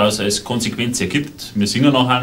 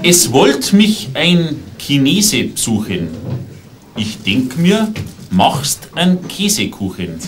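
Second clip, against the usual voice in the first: measured verse delivery with punchline pauses; comic poem recital; 2 semitones lower than usual. Acted. Poet to audience about a visitor's cake, deadpan comic recital. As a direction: recite it line by line, landing each rhyme.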